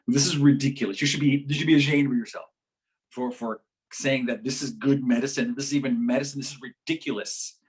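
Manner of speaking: mildly mock-outraged telling-off; indignant scolding. Friend scolds the doctor about tapping, with mock indignation.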